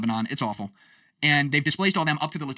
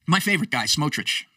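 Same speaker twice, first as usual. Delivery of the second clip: dry, mocking praise for a man he dislikes; sarcastic. Real, not acted. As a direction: say it with a sneer under the praise. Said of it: "very sarcastic way of saying that".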